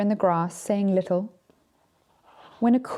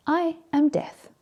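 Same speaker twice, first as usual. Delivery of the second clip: solemn Death; 8 semitones higher, slower than usual. Acted. Death introduces himself.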